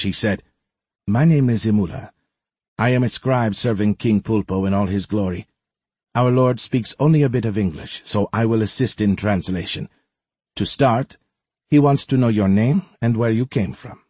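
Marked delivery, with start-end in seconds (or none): 1.1-2.1 lightly voiced polite old servant. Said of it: "In near-perfect English". 2.8-14.0 servant voice. Acted. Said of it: "In near-perfect English".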